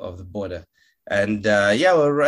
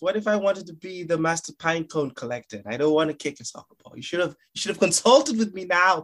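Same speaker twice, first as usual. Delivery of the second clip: mock toddler son; 7 semitones higher than usual. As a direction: complain to Dad like an indignant little boy. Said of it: "It's like".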